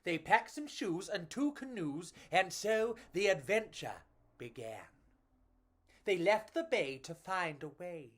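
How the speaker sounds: put-on lively read-aloud for children; storybook narration. A narrator's reading. Reading a picture book to children, lively storytelling. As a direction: tell it like a bedtime picture book.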